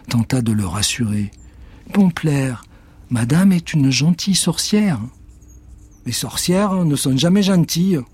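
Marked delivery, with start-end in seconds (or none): 1.9-5.0 voix de petite fille, plus aiguë, douce; voix de Joséphine rassurante. Acted. Joséphine reassures the cat. 6.1-8.0 réplique butée d'un chat; voix du chat méfiant. Acted. Cat replies.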